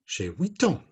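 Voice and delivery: high puppet answer; reply brightly pitched as a little puppet; high character voice; Inès puppet voice. Acted. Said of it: "Matisse and Inez".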